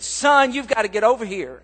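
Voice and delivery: mock the mother's outburst on the phone; upset mom. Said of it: "she called her son just exploding".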